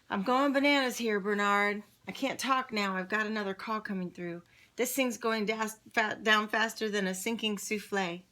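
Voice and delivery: dad frantic on the phone at work; frazzled dad. Acted. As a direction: rush through it like a swamped boss.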